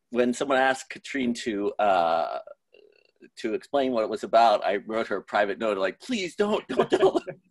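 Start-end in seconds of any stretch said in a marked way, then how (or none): 6.0-7.4 high, squeaky mock plea, climbing higher; mock pleading. Asking Katrine in a note not to explain, mock pleading. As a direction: beg in a tiny high voice, half joking.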